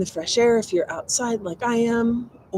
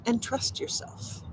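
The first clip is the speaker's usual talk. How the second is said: whispered; 4 semitones higher, 10 dB quieter than usual. Acted. Soft encouragement in a reading.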